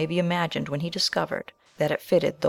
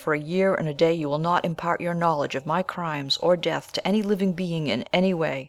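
loud, fierce dying oath; exultant violence; 3 dB louder than usual. Acted. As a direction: demand the oath with wild force. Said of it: "raising himself with exultant violence".

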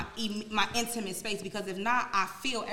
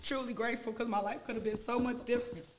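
softly choked up with tears; grateful, holding back real tears; tearful; 4 dB quieter than usual. Real, not acted. Talking about adoptive parents, tearful and soft. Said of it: "don't mistake these tears".

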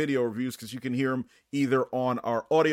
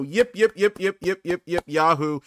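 high, loud yipping cheer; excited cheer; 4 semitones higher, 3 dB louder than usual. Real, not acted. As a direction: whoop it up like a cowboy. Cheering on the show's start.

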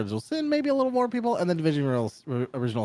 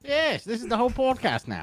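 higher put-on British voice; mock British accent; 10 semitones higher than usual. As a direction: stay in the British act. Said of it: "how we're going to speak".

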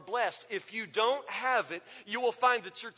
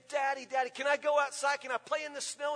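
put-on pleading child; 4 semitones higher than usual. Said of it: "So Perry kept saying".

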